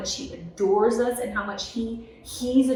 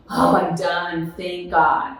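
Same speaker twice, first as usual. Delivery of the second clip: slow, drawn-out relief with a louder voice; relieved sigh; 3 semitones lower, 5 dB louder, much slower than usual. Retold or imitated. New mother after labor, sighing slow relief. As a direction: let it out like labor is finally over.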